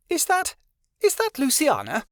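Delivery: stunned to see a long-lost sister; astounded. A narrator's reading. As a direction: gasp it out as if you can't believe your eyes. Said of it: "with an astounded expression".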